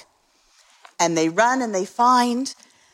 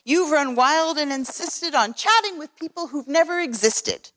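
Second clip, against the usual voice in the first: higher, snappish scolding kangaroo; sour kangaroo; 6 semitones higher than usual. Acted. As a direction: scold him sourly from up high. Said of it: "snapped the sour kangaroo".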